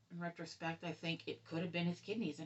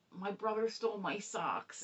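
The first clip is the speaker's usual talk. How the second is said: mock whine; 3 semitones higher, 6 dB louder than usual. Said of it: "or whining about".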